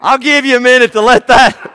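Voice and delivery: laughing through the words; can't stop laughing at his own punchline. Real, not acted. Preacher laughing at own joke.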